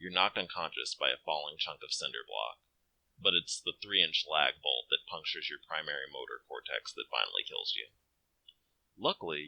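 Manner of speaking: calm storyteller reading of the game text; game narration. A narrator's reading. Player reading the game over text, calm narration. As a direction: narrate the grim accident evenly, like a story.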